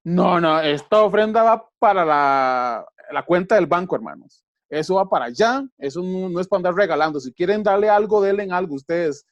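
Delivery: lightly mocking another pastor refusing to give; mock stingy pastor. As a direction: sneer it like a pastor hoarding the offering. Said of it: "qué haría cualquier otro pastor".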